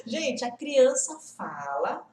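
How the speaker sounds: slow words, still laughing; laughing while talking. Real, not acted. Teacher to viewers, still laughing as she speaks. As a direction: push the words out through the laugh.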